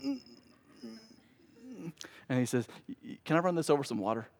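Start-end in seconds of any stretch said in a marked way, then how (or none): 0.0-1.9 short, quiet effortful grunts; mock struggle with a bottle cap; straining grunts. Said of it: "he takes it and he goes". 2.9-4.3 a hint of a meek weenie, quick and stammering; softly, hurriedly stammer out a feeble request; timid weenie. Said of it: "'cause he's, he's a weenie".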